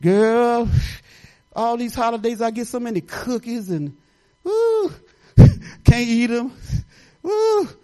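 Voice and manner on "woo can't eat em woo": laughing. Real, not acted. Laughing about cookies.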